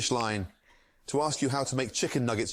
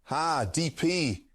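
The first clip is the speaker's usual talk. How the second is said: chef voice losing steam, ha after every word; fading Gordon with ha; 3 semitones higher, slower than usual. Acted. Streamer's chef voice trails off as the request drags on. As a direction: let the ha bits peter out. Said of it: "He lost enthusiasm at the end".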